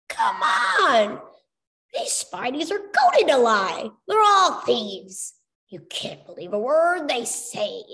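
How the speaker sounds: high, loud exasperated shout; loud protest. A narrator's reading. Chuck yelling at the Dream Seeker, exasperated shout. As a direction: shout him down in disbelief.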